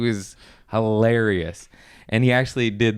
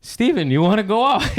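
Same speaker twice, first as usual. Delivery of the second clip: high-pitched imitated question; 11 semitones higher, 3 dB louder than usual. Comic imitates host asking a comedian onstage, high-pitched. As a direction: ask it in a lovable guy's high voice. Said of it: "he's got a really high-pitched voice".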